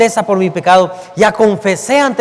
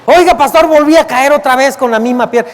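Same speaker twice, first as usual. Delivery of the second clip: whining church member; 5 semitones higher than usual. Retold or imitated. Brother confessing same sin.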